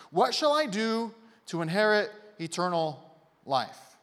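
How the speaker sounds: loud start, then measured pauses between phrases; slow, deliberate quote. Acted. Preacher restating the lawyer's good question, slow and deliberate. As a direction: spell out the question slowly, piece by piece.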